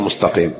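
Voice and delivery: مستقيم with ط for ت; wrong emphatic t in مستقيم; ta as heavy tah. Shown as a demonstration. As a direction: darken the t in مستقيم. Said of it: "ما في شيء اسمه".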